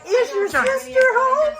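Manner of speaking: milk the punchline slowly; hopeful old uncle. Retold or imitated. Uncle asks mother for her sister, slow hammed-up hope. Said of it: "And he says".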